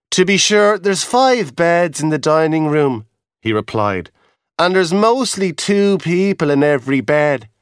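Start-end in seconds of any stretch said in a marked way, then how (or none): 0.1-3.0 lively raised Irish lad voice; a lightly voiced young Irish porter; hotel boy. 4.6-7.5 lively raised Irish lad voice; a lightly voiced young Irish porter; hotel boy.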